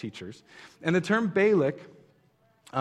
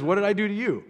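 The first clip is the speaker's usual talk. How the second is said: lightly voiced donkey, pitched higher; mildly aggrieved, raised-pitch protest; 5 semitones higher, faster than usual. Preacher retells the donkey speaking to Balaam, mildly indignant.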